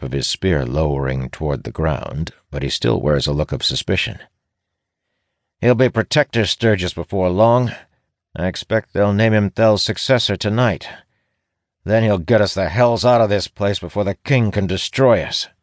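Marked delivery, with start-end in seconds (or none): 5.6-15.5 high-pitched, insistent guard voice; guard character. A narrator's reading. Guard telling a ranger about the next Protector, high and insistent. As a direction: push it out high, as a guard sure of himself.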